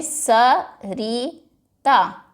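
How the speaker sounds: सरिता slowly as स-रि-ता; three clapped beats on सरिता; split into syllables. Shown as a demonstration. Teacher claps सरिता in three parts for the class, slowly. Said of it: "तीन syllables हैं".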